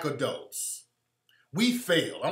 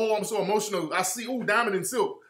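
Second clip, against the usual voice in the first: mocking fan gush, pitched up; 5 semitones higher than usual. Mocking white fans gushing over Diamond and Silk. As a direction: ham up a starstruck sigh on "ooh". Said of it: "They don't act all".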